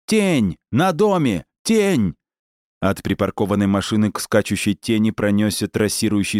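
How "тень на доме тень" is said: panicked shout, rising each time; yelling. A narrator's reading. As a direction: scream the warning. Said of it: "завопил он в рацию".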